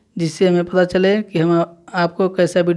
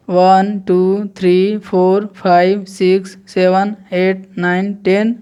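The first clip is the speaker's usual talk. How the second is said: unhurried, each number set apart; slow counting drill; slower than usual. Shown as a demonstration. Teacher slowly counting one to ten for students, clear drill. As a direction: recite one by one for the class. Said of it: "एक बार और देख लीजिए".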